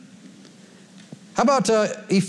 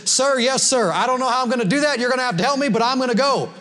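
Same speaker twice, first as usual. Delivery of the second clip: obedient soldier; 5 semitones higher than usual. Acted. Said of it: "the appropriate response is".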